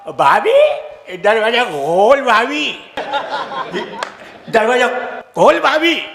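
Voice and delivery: put-on slow, slurred drunk calling bhabhi; drunk pleading. Drunk friend calls to the wife through the door, slow and slurred. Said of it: "वो गया".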